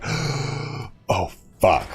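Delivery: breathy, hushed oh fuck; shocked whisper. Retold or imitated. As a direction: whisper it in sudden dread. Cop cars arrive, both shocked.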